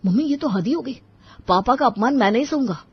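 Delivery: mildly heated objection; angry protest. Acted. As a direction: protest hotly to a mother. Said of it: "बहुत गुस्से में लग रहा है".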